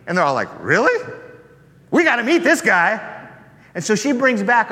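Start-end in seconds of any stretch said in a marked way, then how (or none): 0.6-3.0 eager villagers. Acted. Villagers react to her news.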